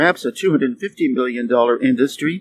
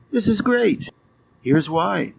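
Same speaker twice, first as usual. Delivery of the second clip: enthusiastic; 5 semitones higher, slower than usual. Acted. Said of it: "Enthusiasm is simply".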